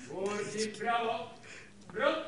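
drill sergeant. Real, not acted. Drill commands.

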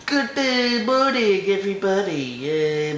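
exaggerated Asian accent imitation. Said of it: "I can't do an Asian accent".

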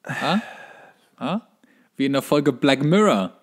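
ordinary delivery

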